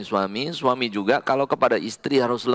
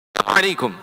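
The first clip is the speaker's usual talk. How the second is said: tender greeting; much faster than usual. Shown as a demonstration. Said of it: "salamnya beda".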